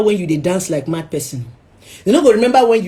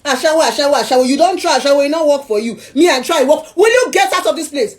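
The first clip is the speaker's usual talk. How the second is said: retold shout; 5 semitones higher than usual. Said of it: "I said".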